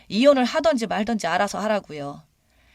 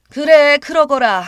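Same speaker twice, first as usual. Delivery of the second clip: loud, higher furious shout; angry retort; 8 semitones higher, 12 dB louder, slower than usual. Retold or imitated. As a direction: shout back to end it. Mother snaps back on phone. (크게 소리치며 맞받아치듯)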